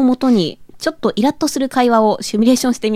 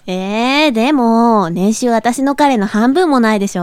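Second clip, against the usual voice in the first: japanese gyaru slang. Acted. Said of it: "ギャルっぽく無理があるよね".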